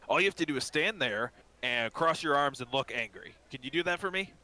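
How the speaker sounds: lightly voiced simple instructions; coax, lifting into the question; coaxing shopkeeper. Shopkeep instructing his new guard, coaxing.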